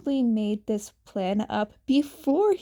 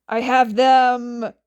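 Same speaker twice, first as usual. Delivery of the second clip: excited shout; 9 dB louder than usual. Acted. Roy runs in with pillows.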